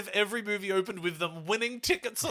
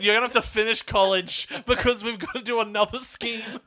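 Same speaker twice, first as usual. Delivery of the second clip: loud acted telling-off; exasperated scolding; 3 semitones higher, 8 dB louder than usual. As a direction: lay down the law to Will, loudly. Voicing father lecturing his son Will.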